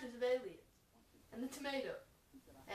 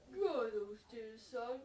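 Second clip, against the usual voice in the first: slow, lower and gentle; elegant angel voice; 4 semitones lower, much slower than usual. Acted. The train comforting the crying narrator, slow angelic voice. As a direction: soothe him slowly like an angel. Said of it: "in the most elegant voice, like an angel".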